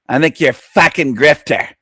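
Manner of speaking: lightly mimicked Aussie twang on the insult; mock Australian accent. Reactor throwing insult at YouTuber, mock Australian accent. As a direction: jeer in a put-on Australian accent.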